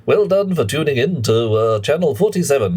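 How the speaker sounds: lightly hammed-up posh newsreader; posh BBC announcer. To chat, mocking a posh BBC announcer. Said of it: "we're talking".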